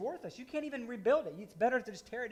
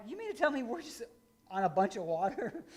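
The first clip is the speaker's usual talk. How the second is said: retold incredulous question, higher on the opening words; half-mock astonishment at finding water underground; disbelief; 4 semitones higher than usual. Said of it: "And I'm like".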